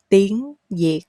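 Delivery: "tiếng yệt" with a y sound on the second word; rising "tiếng", then "yệt" begun like yay; Southern spoken Y. Shown as a demonstration. Learners hear the spoken Southern way, "yệt" with a y. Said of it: "spoken way is the Y sound".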